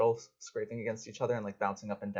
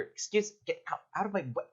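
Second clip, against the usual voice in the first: high squeaky voice; 9 semitones higher than usual. Acted. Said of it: "you hear".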